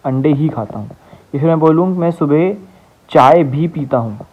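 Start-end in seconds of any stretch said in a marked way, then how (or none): 0.1-0.9 ही pressed firmly before खाता; stress on ही. Shown as a demonstration. Teacher repeating the example with stress on ही. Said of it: "तो भाई शब्द जोर लग रहा है". 2.0-4.2 slow, with चाय weighted and falling; stress on चाय. Shown as a demonstration. Teacher showing the class the stress on चाय. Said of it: "तो चाय पे जोर लग रहा है".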